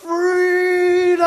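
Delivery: loud, high defiant battle yell; yelled freedom. Retold or imitated. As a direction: hurl the word out as a last act of defiance. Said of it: "he yells out".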